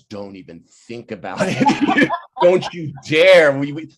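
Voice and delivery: laughing through a mock warning; laughing protest. Stefan's mom laughing him off. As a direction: say it while cracking up. Wife's laughing objection, retold.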